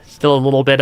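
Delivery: talking through a blocked nose; nasal, congested speech; stuffy nose. Real, not acted. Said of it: "still got a little bit of a stuffy nose".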